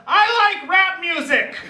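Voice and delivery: high, sudden blurt; blurted line. Retold or imitated. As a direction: blurt it out in a nervous rush. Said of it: "she blurts out".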